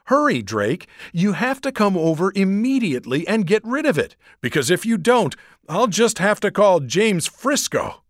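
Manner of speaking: put-on girl gabbling in fear about a monster; panicked rush. A narrator's reading. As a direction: babble it out in terror. Frightened Gabby on the phone.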